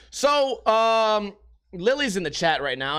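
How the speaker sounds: usual speaking voice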